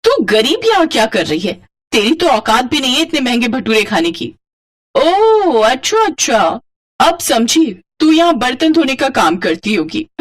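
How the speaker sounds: mocking taunt. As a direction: look down on her and mock. Rich woman mocks poor woman. (घमंडी औरत का ताना)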